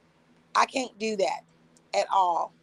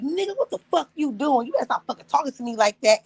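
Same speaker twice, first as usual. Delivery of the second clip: mock angry outburst; 5 semitones higher than usual. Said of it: "I'm on this live and I'm like".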